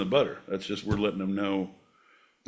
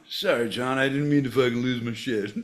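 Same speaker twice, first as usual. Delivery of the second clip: quick, level-voiced apology; apologizing; 3 semitones higher than usual. Shown as a demonstration. Sample lesson apologizing to John, quick contrite demo. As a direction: back down hastily after an outburst. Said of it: "Apologizing to John".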